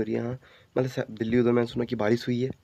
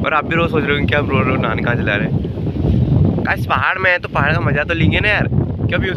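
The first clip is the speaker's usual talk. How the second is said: shouting over wind; 4 semitones higher, 6 dB louder than usual. Real, not acted. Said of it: "हवा चल रही है, कुछ सुनाई नहीं दे रहा होगा".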